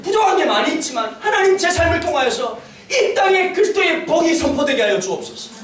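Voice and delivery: impassioned pulpit prayer, falling at each plea's close; fervent prayer. Real, not acted. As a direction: pray aloud with rising fervour. Prays aloud from the pulpit.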